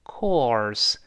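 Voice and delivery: "course" with o first, then tongue curled back. Shown as a demonstration. Teacher demonstrates the vowel, "course" with curled-tongue r. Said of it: "那先发o，再勾舌".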